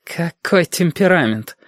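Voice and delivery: high-pitched, drawn-out mock admiration; mocking woman. A narrator's reading. Woman needles the heated dark man, high and mocking. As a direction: tease him in a high, slow voice.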